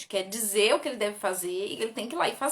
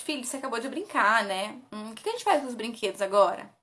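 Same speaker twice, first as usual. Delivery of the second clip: gentle question. Shown as a demonstration. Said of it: "Não, pergunte".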